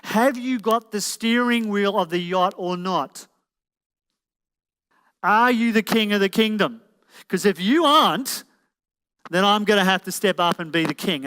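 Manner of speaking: voiced challenge from a partner; woman anxiously checking in. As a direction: press him for reassurance, lightly acting her part. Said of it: "they're constantly checking in with us".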